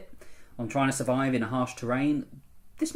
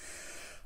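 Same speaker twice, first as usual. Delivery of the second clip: loud tut; 18 dB quieter than usual. Retold or imitated. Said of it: "I started tutting loudly".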